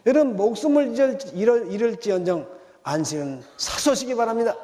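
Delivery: 잃을을 높고 크게 외치며 호소; 목숨 걸고 지키라 다그치듯; fervent exhortation. Real, not acted. Preacher's exhortation. (회중에게 안식을 지키라고 높고 크게 호소하는 설교자)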